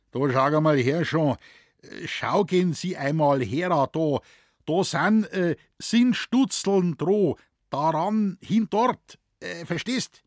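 high, loud, halting Bavarian; struggling forester. A narrator's reading. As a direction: grope for words in broken High German. Moosbichler struggling to explain. (stockender, hoher bayerischer Erklärungsversuch)

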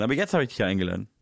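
ordinary talk

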